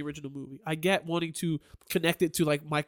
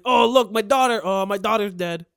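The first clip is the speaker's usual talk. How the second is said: Laurie impression; 2 semitones higher, 5 dB louder than usual. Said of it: "That's what Laurie sounds like".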